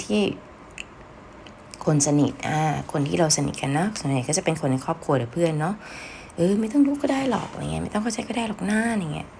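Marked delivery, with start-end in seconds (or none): 6.4-9.3 easygoing and light, higher; soft casual reassurance; soft and gentle. Shown as a demonstration. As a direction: keep it soft so they stop asking. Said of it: "พูดเบาๆ ซอฟต์ๆ".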